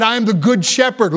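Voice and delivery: "good" as the most prominent word, falling after; emphasis on "good"; stress on GOOD. Shown as a demonstration. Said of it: "Emphasis on the word good".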